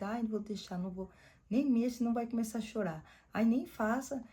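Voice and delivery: imitando mãe aflita, mais aguda e alta; mãe permissiva imitada. Retold or imitated. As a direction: faz a mãe que não deixa nada, com \"ai\" queixoso. (imitando mãe superprotetora, mais aguda)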